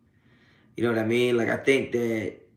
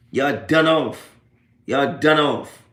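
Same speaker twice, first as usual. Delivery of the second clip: slow taunt; 2 semitones higher, 5 dB louder, much slower than usual. Real, not acted.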